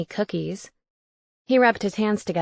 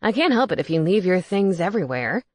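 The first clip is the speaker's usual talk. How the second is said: indignant. Acted. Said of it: "he said indignantly".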